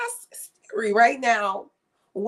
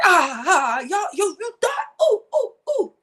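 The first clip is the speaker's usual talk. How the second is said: mocking voice; 9 semitones higher, 4 dB louder than usual. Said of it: "she be like".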